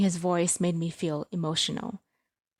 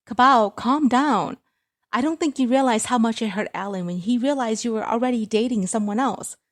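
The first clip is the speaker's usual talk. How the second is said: mother telling daughter to calm down, loud; mother urging calm; 5 semitones higher, 7 dB louder than usual. Acted.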